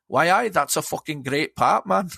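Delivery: light put-on Newcastle accent; a jokey Geordie Newcastle twang. Praising the band in a mock Newcastle accent, light and jokey. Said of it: "That's my Newcastle accent".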